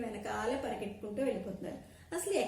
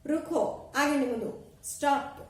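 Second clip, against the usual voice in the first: loud commanding shout to halt; lion shouting stop; 3 semitones higher, 5 dB louder than usual. Acted. Lion halts the stampeding animals with a loud shout. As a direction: bellow stop as king of the jungle. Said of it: "అరిచింది".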